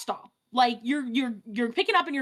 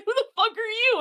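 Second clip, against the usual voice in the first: mock confrontation; 10 semitones higher, faster than usual. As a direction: play the wife snapping a challenge, half-laughing. Wife confronting her, retold.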